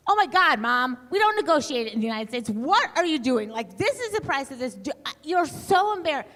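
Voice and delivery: put-on high, loud mortified teen protest; embarrassed teen daughter. Daughter mortified as mom haggles at the register, high and loud. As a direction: hiss it out like a teenager dying of shame in public.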